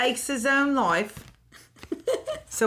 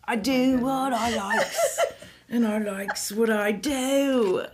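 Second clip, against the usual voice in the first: put-on Cockney accent; slower than usual.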